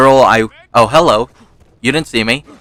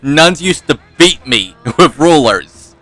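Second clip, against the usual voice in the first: mock crying; 3 semitones higher, slower than usual. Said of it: "I pretended to start crying".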